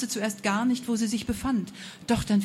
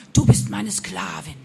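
witch calling out; 7 dB louder than usual. A narrator's reading. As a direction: claim the girl like a gloating witch. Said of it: "rief dieser Hund-, Mund".

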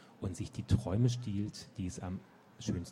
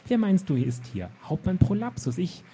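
high, loud self-important bluster; pompous captain; 10 semitones higher, 9 dB louder than usual. Acted. Captain announces himself grandly at the gate, blustering. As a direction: puff yourself up and announce your name.

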